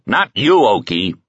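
impatient. A narrator's reading. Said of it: "Hans added impatiently".

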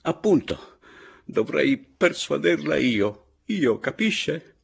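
high, loud, drawn-out indignation; slow, emphatic, high-pitched protest; indignant outburst. A narrator's reading. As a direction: hit it hard, outraged and incredulous. Caporale's indignant outburst to narrator.

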